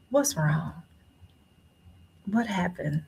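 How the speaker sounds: softly retold, caring doctor's questions; gentle doctor. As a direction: ask quietly, leaving room for an answer. Doctor gently asking after deep breath.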